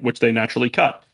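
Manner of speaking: dry, understated aside; deadpan. Real, not acted. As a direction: say it flat with no reaction. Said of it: "That was an excellent deadpan delivery".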